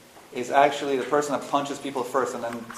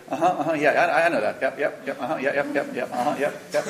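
rapid-fire string of dismissive agreement; mock eager yep-yep interrupting; know-it-all client. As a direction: imitate a client cutting in with yeps. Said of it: "they go".

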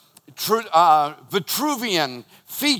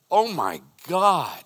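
awed; slower than usual. Retold or imitated. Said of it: "I am just like".

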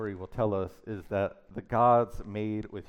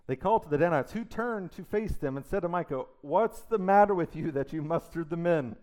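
loud, higher call across the road; raised voice hailing the Danites; 7 semitones higher, 6 dB louder than usual. Acted. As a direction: shout it after them. Preacher reads Danites calling out.

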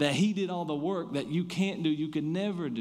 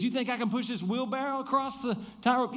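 showman challenge; 10 semitones higher than usual. Retold or imitated. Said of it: "He says".

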